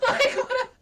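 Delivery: high, laughing through the words. Real, not acted. Host laughing about monetizing hobbies, laughing. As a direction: laugh it out in disbelief.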